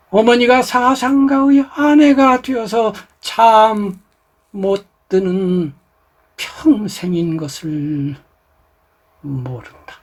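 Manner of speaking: slow, sorrowful, grief-laden delivery. Showing how to read the line with empathy, deep sorrowful feeling. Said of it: "여기에 지금 엄청난 한이 있거든요. 공감해야 되거든요. 이렇게 하는 거죠".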